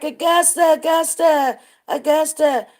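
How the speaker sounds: mock holler. Storyteller imitating woman hollering for singer on stage, mock holler. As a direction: imitate an excited fan calling out. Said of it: "she started screaming and hollering for him".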